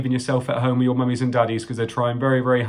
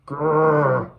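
growl. Acted. Growl in the story.

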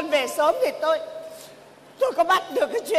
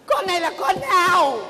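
shouted demand; 4 semitones higher than usual. Acted. Wife confronting husband about the woman, furious shout. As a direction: explode with the same question.

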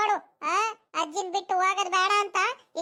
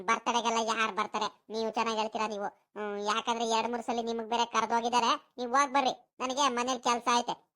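lightly lowered voice, refusing politely; a hint of a reluctant daughter-in-law begging off; lightly voiced village girl, mildly coaxing; lower-voiced young woman; 3 semitones lower than usual.

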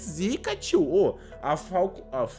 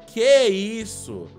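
high, slow, loud disbelieving cry; surprised; 5 semitones higher, 8 dB louder, much slower than usual. Real, not acted. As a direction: drag it out in shock. Reacts to a fruit roll.

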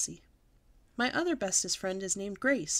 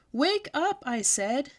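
high, loud frustrated shout; 6 semitones higher, 4 dB louder, slower than usual. A narrator's reading. Boy yells at his dead crickets in the jar. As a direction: yell at the sleeping crickets. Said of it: "he shouted".

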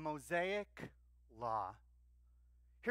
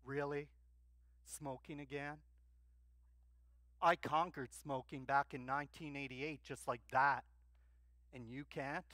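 mocking self-righteous. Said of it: "they go".

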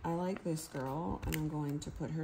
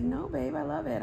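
husband reassuring; 8 semitones higher than usual. Retold or imitated. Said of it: "he's like".

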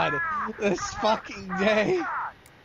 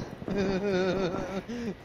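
helpless laugh; 4 dB quieter than usual. Real, not acted. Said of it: "What is this laugh that is happening right now".

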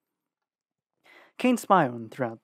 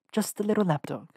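sweet venom; 6 semitones higher than usual. Acted. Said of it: "smiled with sweet venom".

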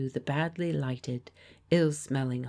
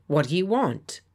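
louder savage demand; 5 dB louder than usual. Acted. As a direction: snarl the question at him. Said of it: "he said savagely".

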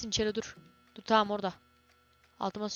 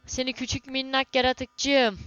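mock baby talk; 5 semitones higher, 6 dB louder, slower than usual. Talking to a creature in game.

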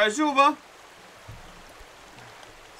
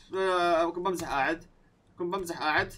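sheepish apology; 6 dB quieter than usual. Real, not acted.

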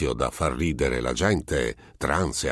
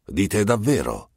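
surprised; 5 semitones higher than usual. A narrator's reading. Nazzaro leaps up, surprised.

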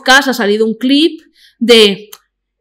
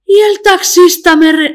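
higher, slow, sultry put-on voice; Ana Milán impression; 7 semitones higher, 4 dB louder than usual. Host imitating Ana Milán's anecdote, higher and sultry. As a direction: purr it like a film seductress. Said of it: "habla como si estuviese en una peli porno".

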